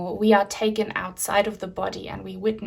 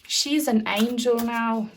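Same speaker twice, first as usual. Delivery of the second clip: slipping slightly into an Irish-like accent; slower, with a hint of an unsure Irish accent; accidental Irish accent. Real, not acted. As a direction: let a faint Irish or maybe Scottish accent creep in. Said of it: "Why did I just have a weird accent?".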